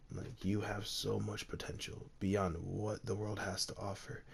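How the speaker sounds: soft, half-whispered dying master; quiet fading words. Acted. Dying master to his student, softly half-whispered. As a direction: let the breath thin out as he speaks. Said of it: "And Wu quietly says".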